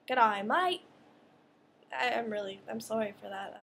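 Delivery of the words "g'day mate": half-hearted Australian impression; amateur Australian accent, rising at the end; attempted Australian accent. Shown as a demonstration. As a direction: try a token Australian greeting. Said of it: "asking me to say things in Australian".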